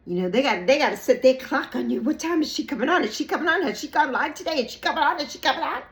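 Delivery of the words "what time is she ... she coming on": loud, high eager nagging; obsessive watcher. Retold or imitated. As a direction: pester like an obsessive fan.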